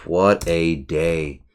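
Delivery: slow, drawn-out sigh of a phrase. Real, not acted. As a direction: draw each word out, worn out.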